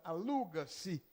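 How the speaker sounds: aluga-se este apartamento, lento e claro; devagar, didático. Shown as a demonstration. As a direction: leia devagar como exemplo de aula. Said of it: "Se é um apartamento só". (exemplo lento de aula)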